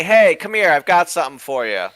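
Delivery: calling over to a shipmate, lightly acted; mild pretend yell. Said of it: "I yell over to Kenny".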